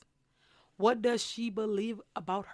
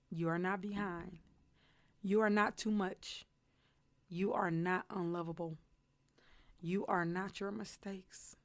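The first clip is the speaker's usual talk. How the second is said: tender reassurance to younger self; 4 dB quieter than usual. Pretend. Talking to her younger self.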